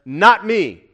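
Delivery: emphatic disavowal. Acted. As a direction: push it out emphatically. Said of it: "Paul emphatically says".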